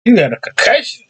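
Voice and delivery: high, rising disbelief; like you can't believe the hit; surprised. Real, not acted. Friend watching the fighter get hit.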